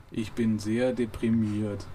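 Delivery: slow, heavy, mildly glum; lightly voiced despondent Marvin; depressed robot. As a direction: drag out the gloom. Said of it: "dumpfes Gebrumme".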